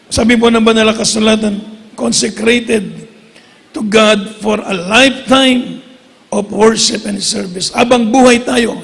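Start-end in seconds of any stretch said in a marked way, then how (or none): 2.0-7.7 slow scripture reading. Acted. Preacher reads scripture aloud.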